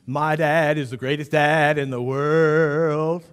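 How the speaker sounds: put-on a kid boasting about his dad, drawn out; the boy praising his dad, mock gushing; proud excited child. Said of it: "start singing praises to the greatest dad".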